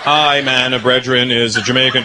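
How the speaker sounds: low, mumbled Jamaican patois; mock Jamaican accent. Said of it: "They're like".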